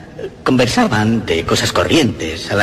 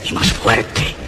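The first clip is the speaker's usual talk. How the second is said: whispered; slower than usual. Acted. Contraste con la repetición.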